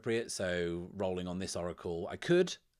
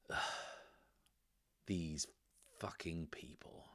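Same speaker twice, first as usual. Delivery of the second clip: very soft, whispered grumble; hushed aside in character, trailing into a whisper; under his breath; 3 semitones lower, 11 dB quieter than usual. Acted. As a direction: mutter it privately, barely voiced. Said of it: "under his breath says".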